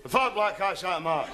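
"The fat black cat sat on the mat" in a broad Scots accent, "fat" said with a broad open ah; Scottish accent. Shown as a demonstration. Scottish student repeating the teacher's sentence in broad Scots. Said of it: "repeat after me".

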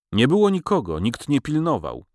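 a Gypsy prisoner whining tearfully about the theft. Acted. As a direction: whimper it out like a man near tears. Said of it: "ciągnął płaczliwie Cygan".

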